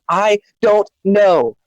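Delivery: slow, mocking I don't know; mocking quote. Friend sneering at the other's excuse, slow mocking imitation. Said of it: "the only way you can be responsible is".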